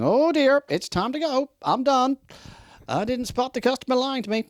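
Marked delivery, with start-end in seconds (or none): 0.0-2.2 mock dismay. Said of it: "looking at your watch and going".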